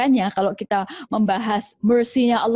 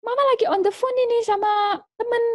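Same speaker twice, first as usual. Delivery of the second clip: much higher, sharp mother's order; bossy mother; 13 semitones higher than usual. Acted. Mother ordering her child to get down, sharp command. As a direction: boss the child off the furniture. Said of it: "Atau dia rame".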